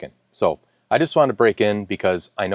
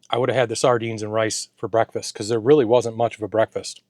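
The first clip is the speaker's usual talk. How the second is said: talking with mouth full. Real, not acted. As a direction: speak through a mouthful of food. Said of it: "I'm talking with my mouth full".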